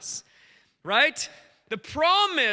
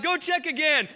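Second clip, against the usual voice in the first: high, insistent mock cry; 4 semitones higher than usual. Elijah sending his servant back, crying out. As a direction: call the order out high. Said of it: "Starts crying out".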